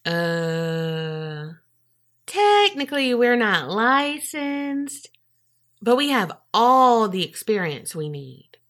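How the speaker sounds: mock hedging, stretched out; sheepish excuse. Staff making excuses to paramedics, sheepish and hedging. Imagined unlicensed staff caught out.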